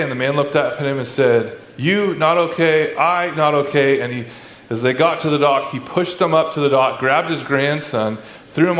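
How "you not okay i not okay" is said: lightly imitated driver in slow, halting English; mildly stern, slow broken-English retelling; stern foreign driver. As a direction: space out the broken English, each word deliberate. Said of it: "very stern and can't speak much English".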